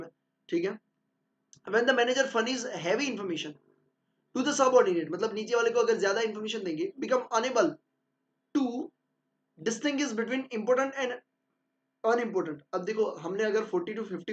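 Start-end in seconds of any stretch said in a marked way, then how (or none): 1.7-12.6 slow, deliberate dictation of a definition; slow textbook reading. Acted. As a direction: read it out as if dictating notes. Reads definition slowly. (धीरे-धीरे notes लिखवाते हुए)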